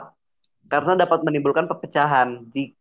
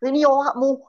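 casual Javanese banter; 10 semitones higher than usual. Retold or imitated. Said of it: "Gue tuh biasa ngomong".

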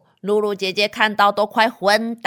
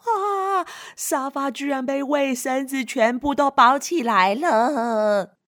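mock wail; 4 semitones higher than usual. Storyteller dismayed at wrapped sofa.

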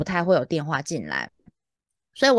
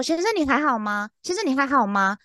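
higher, anxious check on someone; retold nervous concern; 5 semitones higher than usual. Agent asking a panting caller after his health, nervous. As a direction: ask twice, worried for the caller. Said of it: "然后我就很紧张".

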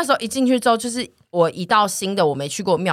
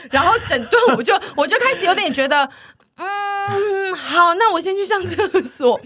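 nervous laugh; 11 semitones higher, 3 dB louder, slower than usual. Retold or imitated. Growing unease, laughing nervously.

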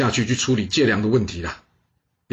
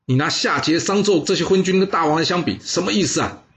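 rebuking retort; 5 semitones higher than usual. Acted. Bo Pi rebukes the minister in a raised, scolding voice. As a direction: tell him off, mildly heated. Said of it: "大声的呵斥说".

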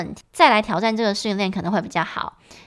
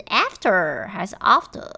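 American then British after; slower than usual. Shown as a demonstration. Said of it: "发音跟美式有一点不一样".

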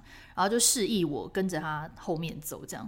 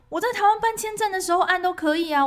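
laughing protest; 11 semitones higher, 8 dB louder than usual. Retold or imitated. Defending herself, laughing.

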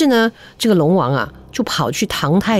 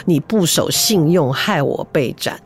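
miserable ghostly lament; 4 semitones lower than usual. Acted. Beheaded dragon king's ghost reproaches the emperor, slow and miserable. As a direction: moan it out like a wronged ghost, slowly. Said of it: "凄凄惨惨".

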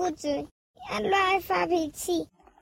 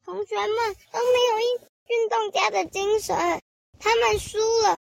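complaining to teacher; 4 semitones higher than usual. Acted. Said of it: "小松鼠跟老师说".

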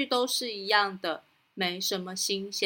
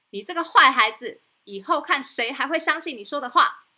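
angry; 3 semitones higher, 5 dB louder than usual. Acted. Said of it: "实在很生气".

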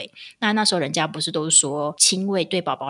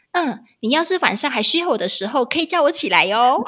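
calm kindness; 7 semitones higher, 5 dB louder than usual. Retold or imitated. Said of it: "冷静下来".

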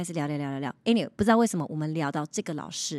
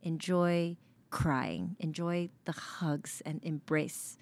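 gentle; 2 semitones lower, 5 dB quieter, much slower than usual. Real, not acted. Gentle advice to let yourself cry.

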